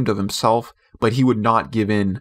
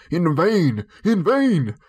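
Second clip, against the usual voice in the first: mild cry; 7 semitones higher, slower than usual. A narrator's reading. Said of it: "he cried".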